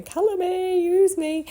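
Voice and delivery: high, loud sing-song pleading; playful high-pitched voice of a stamp begging to be used. Pretend. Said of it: "looking at me going".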